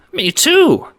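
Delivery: loud, high squeak. A narrator's reading. W V agreeing with Johnny, high squeak. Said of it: "squeaks W V".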